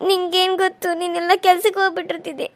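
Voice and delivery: tearful pleading to her husband; crying. Acted. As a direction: weep while blaming yourself. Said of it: "ನೀ ಹಿಂಗೆ ಅಳಾಕತ್ರ".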